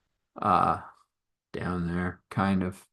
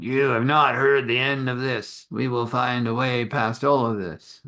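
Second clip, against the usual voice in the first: mildly raised, indignant vow; acted stern warning from an affronted king; a touch of menace, declaimed; threatening father; 3 semitones higher than usual. Father threatens the prince's side.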